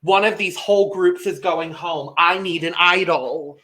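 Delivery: a touch of hammed-up alarm; mock paranoia. Player imagining the most far-fetched conclusions, mock-paranoid. Acting out own paranoid reaction.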